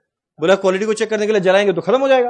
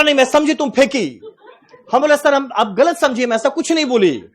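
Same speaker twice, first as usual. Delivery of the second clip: higher mock South Indian Hindi; 5 semitones higher than usual. The quarrel with the supervisor continues in mock South Indian Hindi. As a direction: keep copying his accent. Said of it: "उसका tone का मजाक उड़ा रहा है".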